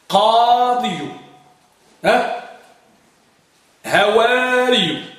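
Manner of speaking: قاضي ببطء مع ياء ممدودة; مدّ قاضي مقطعاً مقطعاً; slow demo word. Shown as a demonstration. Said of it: "فإذا قلنا جواري". (نطق قاضي ببطء)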